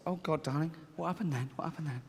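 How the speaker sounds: soft, dismayed parent pressing gently; hushed acted concern; concerned father. Father hearing his daughter's account, softly dismayed.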